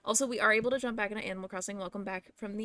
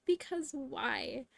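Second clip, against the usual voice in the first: slow; 4 semitones higher, 4 dB quieter, much slower than usual. Shown as a demonstration. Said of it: "Can we just talk about that".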